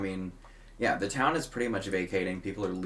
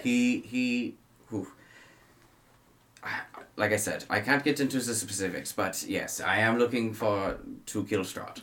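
slightly raised, guarded hunter voice; lightly voiced Van Richten; 3 semitones higher than usual. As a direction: hold back the details, a touch secretive.

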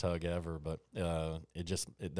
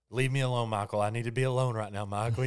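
higher and louder, pushing him away; a mother holding back tears, voiced lightly; a mildly acted mom telling her son to leave her alone; retold upset mother; 5 semitones higher, 6 dB louder, faster than usual. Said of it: "and she's like".

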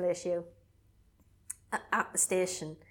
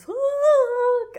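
much higher, loud startled swear; startled curse; 11 dB louder than usual. Retold or imitated. Jess spinning round to the shadow, startled yell. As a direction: blurt it out in fright. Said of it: "turns around and goes".

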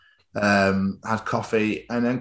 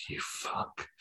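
mock-furious whisper; whispered curse; 17 dB quieter than usual. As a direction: swear silently on the breath alone. Thought he dared not say aloud.

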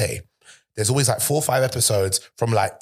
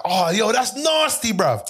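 mock disgust; 10 semitones higher, slower than usual. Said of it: "I'd be seeing like".

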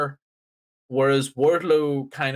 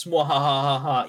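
evil billionaire laugh. Pretend. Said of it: "evil billionaire noises".

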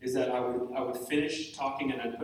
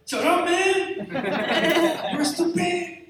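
much higher, loud, very slow, hammed-up; Mexican alter ego; 13 semitones higher, 7 dB louder, much slower than usual. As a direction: yell it like a cartoon tough guy. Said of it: "my Mexican alter ego, he's a Pepe".

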